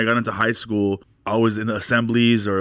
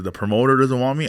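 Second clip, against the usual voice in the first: raised-pitch disbelieving question; incredulous echo; 4 semitones higher than usual. Retold or imitated. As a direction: echo the news back as an offended question. Repeats manager's news back in disbelief.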